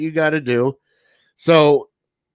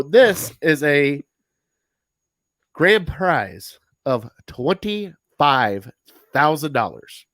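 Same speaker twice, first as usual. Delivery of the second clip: booming prize announcer; much slower than usual. Pretend.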